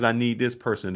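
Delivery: ordinary talk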